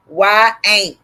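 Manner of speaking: "Why ain't" as two clear words; sounded-out pronunciation. Shown as a demonstration. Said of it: "is how you say it".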